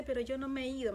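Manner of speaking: lightly voiced calm reassurance; God calmly reassuring the dreamer, tranquil. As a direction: say it gently, without hurry. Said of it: "me lo decía así como con una tranquilidad".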